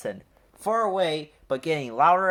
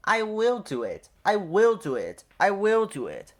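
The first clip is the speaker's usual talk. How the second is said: loud, higher, puffing with effort; 6 semitones higher, 4 dB louder than usual. A narrator's reading. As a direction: push it out like an engine straining uphill. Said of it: "puffed Edward".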